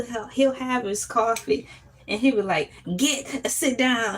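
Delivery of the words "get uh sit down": Southern teacher impression. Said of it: "He sound like Foghorn Leghorn".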